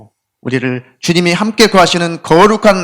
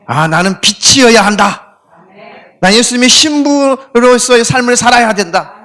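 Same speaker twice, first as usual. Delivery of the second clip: self-exhortation; 3 semitones higher than usual. Retold or imitated. Pastor showing the congregation how to rouse themselves, fervent. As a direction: declare it to yourself with growing fervor. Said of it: "자기 자신을 막 그렇게 가다듬어".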